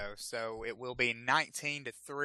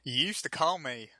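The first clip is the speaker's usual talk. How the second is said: put-on thick Southern accent; 3 dB louder than usual. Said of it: "real thick Southern accent".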